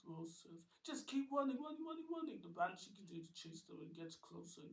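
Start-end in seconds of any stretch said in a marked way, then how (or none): 0.8-2.4 high, loud urging; urgent shout. Acted. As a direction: drive them on. Rose urges everyone on.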